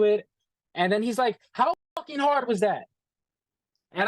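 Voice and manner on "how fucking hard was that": higher, imitating a scornful jab; mocking boss. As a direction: sneer it like a condescending boss. Boss mocks him over tripod.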